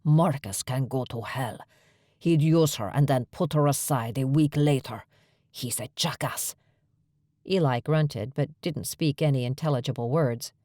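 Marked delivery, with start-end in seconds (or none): 0.0-6.5 snapping. A narrator's reading. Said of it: "Eric snapped back at him".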